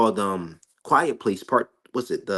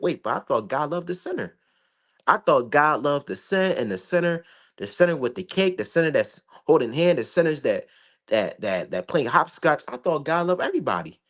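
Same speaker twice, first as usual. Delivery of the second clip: higher-pitched imitation of a puzzled believer; mock-puzzled, pitched-up protest; mock naive objection; 4 semitones higher than usual. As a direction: mimic someone protesting in disbelief. Mimicking objectors who expect a loving God.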